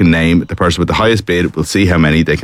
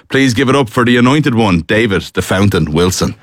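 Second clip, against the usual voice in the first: mock-grand introduction, slightly raised pitch; show announcer; 3 semitones higher than usual. Host welcomes the anointed one, mock-grand announcer style. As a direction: announce the contestant by name and nickname.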